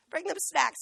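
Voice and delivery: loud emphasis. Shown as a demonstration. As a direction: punch it out to drive the point home. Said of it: "repeated louder".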